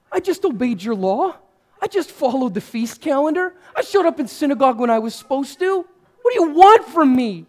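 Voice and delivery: railing at God. Retold or imitated. Joseph railing at God in the night, rising anger. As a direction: rage at heaven, building.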